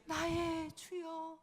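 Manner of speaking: 나의 주여 drawn out softly like a tearful prayer; heartfelt, tearful plea. Shown as a demonstration. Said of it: "우리의 감정을 넣어서 다시 한번". (감정을 담아 아주 천천히, 부드럽게)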